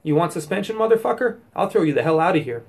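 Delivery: loud, cursing tirade at the students; mock angry teacher yelling. Teacher yelling at two chatting students, angry shout. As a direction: yell it like you've lost your temper. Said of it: "I yell at them and I say".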